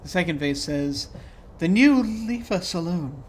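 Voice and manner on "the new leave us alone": slow, higher monster voice; a strange creature speaking slowly. Acted. Blob face speaks, voiced.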